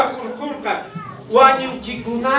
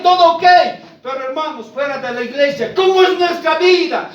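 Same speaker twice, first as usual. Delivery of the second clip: fiery preaching; 3 semitones higher than usual. Acted. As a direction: press the congregation hard on their testimony. Preaching full force.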